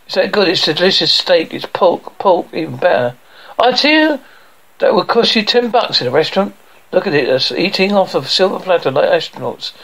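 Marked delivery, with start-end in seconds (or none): 3.6-6.5 hearty boast. Acted. Dad praising the dinner.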